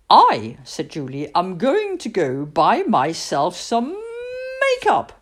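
put-on bold kid announcing her plan; lightly voiced Julie. Julie proudly tells her mother she is off to buy makeup.

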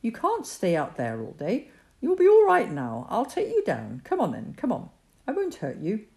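coaxing gently to a scared kitten; a boy soothing a frightened kitten. Acted. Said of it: "as soothing a tone as he could manage".

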